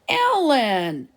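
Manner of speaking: high horrified cry of a name. A narrator's reading. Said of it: "chorused Benji and Mark in horror".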